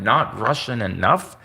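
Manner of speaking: slow, disbelieving question rising at the end; incredulous echo. Real, not acted. Vlogger mocking YouTube's ruling, slow incredulous rise. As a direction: drag it out in disbelief. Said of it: "incredulous echo of the verdict".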